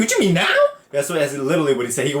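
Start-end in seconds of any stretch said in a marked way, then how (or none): 0.0-0.6 higher-pitched mock disbelief; baffled retort. Player questioning the coach's sudden order, mock baffled. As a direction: question it as if you can't believe it.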